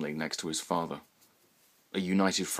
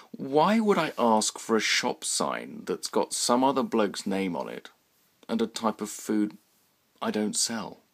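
voice of reason; 4 semitones higher than usual. Acted. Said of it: "still a voice of reason".

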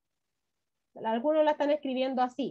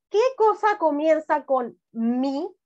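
louder, slow, calling to the class; loud question to the class; 6 dB louder, slower than usual. Shown as a demonstration. Teacher asking the whole class, louder and slow. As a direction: call it out to everyone. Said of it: "asking the class".

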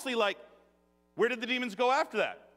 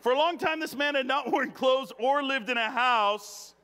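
higher and louder, with a laugh breaking in; louder, bigger restart; 4 semitones higher, 4 dB louder than usual. Shown as a demonstration. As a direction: start over with more punch. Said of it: "Here we go".

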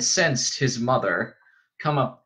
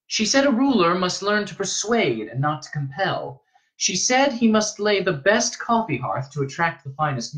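put-on higher-pitched boy recounting; earnest young pupil; young Paul, earnest; 7 semitones higher than usual. A narrator's reading. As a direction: recite it earnestly in a lifted voice.

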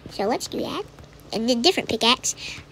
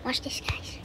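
whisper; 12 dB quieter than usual. Real, not acted. Quiet tease to viewers.

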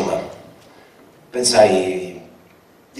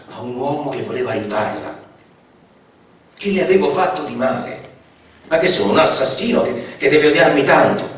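higher, louder, pained rhetorical questions; anguished outburst; 5 semitones higher, 3 dB louder than usual. Acted. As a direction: cry out at the injustice, hurt and baffled. Narrator's anguished outburst over refusal. (sfogo angosciato, più acuto e più forte)

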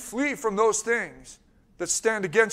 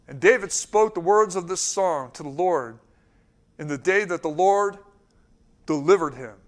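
scripture reading; 3 semitones lower than usual. Real, not acted. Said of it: "my friend told me to read slow".

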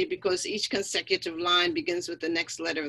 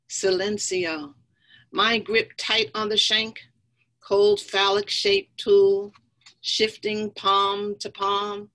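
measured poem reading with pauses; poetry recital; 5 dB louder than usual. Acted. Poet reading Gun to the audience, measured recital. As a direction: recite it in short, deliberate phrases.

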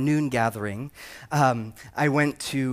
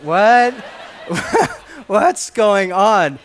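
amused bystanders; 5 semitones higher, 8 dB louder, much slower than usual. Retold or imitated. Gym onlookers, voiced with laughter.

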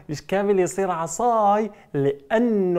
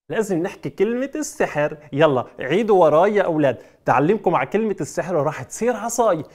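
ordinary delivery

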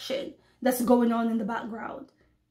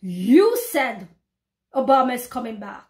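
mocking doubter. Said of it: "brothers and sisters will say".

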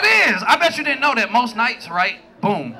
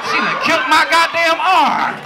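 mock waking boyfriend; slower than usual. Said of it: "You like".

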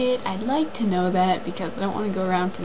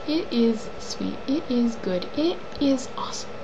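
soft fond praise; 4 dB quieter than usual. Real, not acted. Soft praise after the poem.

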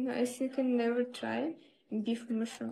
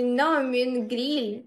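firm, louder "grill" in correction; insisting correction; 4 dB louder than usual. Shown as a demonstration. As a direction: stress "grill" to set it straight. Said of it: "Grill, did you say?".

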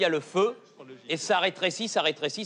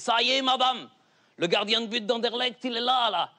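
calling up; 6 semitones higher than usual. Acted. Goalkeeper below urging the mother to throw, calling up. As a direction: call up to her, urging.

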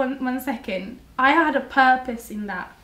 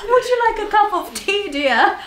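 posh English; 8 semitones higher than usual. Pretend. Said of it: "let us hear the posh English".

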